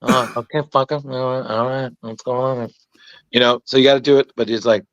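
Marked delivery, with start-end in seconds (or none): 0.0-2.7 De Niro. Retold or imitated. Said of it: "it's like De Niro-y".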